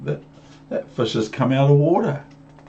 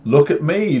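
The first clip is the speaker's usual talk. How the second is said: showing-off cat; 6 semitones higher, 4 dB louder than usual. Acted. Cat shows off.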